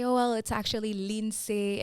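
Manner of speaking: Lindsay said carefully as "leen-SAY"; correcting pronunciation. Retold or imitated. Guest acts out correcting people on her name, Lindsay said the Haitian way. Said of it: "having to correct people and say".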